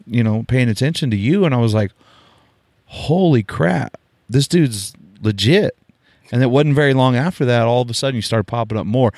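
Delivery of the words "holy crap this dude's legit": slow, drawn-out mock awe; retold amazement. Host recalling first seeing the rider, slowly amazed. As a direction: let each word land, mildly stunned.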